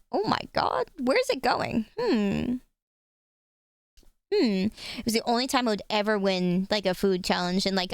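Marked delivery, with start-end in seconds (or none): 0.1-1.9 higher, amazed disbelief; amazed kid voice. Retold or imitated. Kid at camp amazed at her own appetite, high amazed cry. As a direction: marvel at your own bottomless stomach. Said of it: "And I was like".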